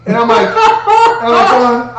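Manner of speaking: laughing while retelling. Real, not acted. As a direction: giggle while trying to get it out.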